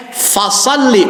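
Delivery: "fasalli" with a crisp f; clear f sound. Shown as a demonstration. Teacher correcting students who say p. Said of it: "bukan pasalli".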